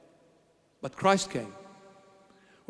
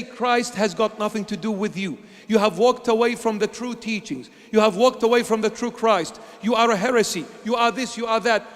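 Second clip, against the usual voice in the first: mock accusers' condemnation; 3 semitones higher than usual. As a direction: throw their accusations back at them, raised. Critics condemning him, voiced loudly.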